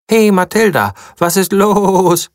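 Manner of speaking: high, curious sheep voice; lightly voiced sheep asking; a sheep asking the excited mouse what's up; sheep Stanley. Sheep asks.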